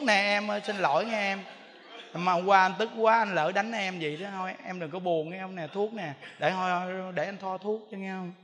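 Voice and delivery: husband soothing his hurt wife; apologetic husband. Retold or imitated.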